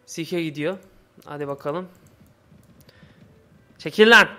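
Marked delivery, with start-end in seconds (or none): 3.8-4.3 loud angry yell; angry shout. Real, not acted. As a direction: bark at them to move. Yelling at bandits in game.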